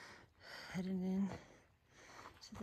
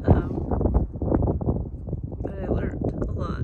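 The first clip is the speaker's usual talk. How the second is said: teary, choked-up talk; tearful; 2 semitones higher, 4 dB louder than usual. Real, not acted. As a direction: voice breaking with emotion. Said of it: "I'm still super emotional".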